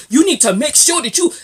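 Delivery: badly faked Latino man's accent, pushed loud; botched Latino accent. Vlogger mocks Latino men talking money, off-target Latino accent. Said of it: "that's not the right accent".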